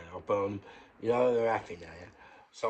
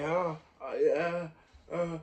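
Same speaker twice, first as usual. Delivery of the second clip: frail patient; 7 semitones higher, slower than usual. Retold or imitated. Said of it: "he's like".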